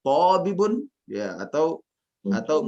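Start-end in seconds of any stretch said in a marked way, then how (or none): 0.0-0.8 "Tabibun" climbing high and louder at the end; "Tabibun" left hanging on a high rise, as in a list; rising intonation. Shown as a demonstration. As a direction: lift the final syllable of "Tabibun". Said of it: "kenaikan intonasi".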